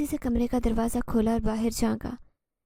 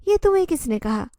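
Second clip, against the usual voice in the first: higher, sharper retort, lightly angry; mildly angry; 4 semitones higher, 4 dB louder than usual. Acted. Zoya defies Zehran's claim, in mild anger. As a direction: challenge him with a touch of anger. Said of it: "Zoya نے غصے سے کہا".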